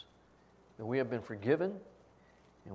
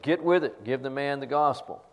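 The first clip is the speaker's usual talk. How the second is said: mock yell; 4 dB louder than usual. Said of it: "were all but yelling at me".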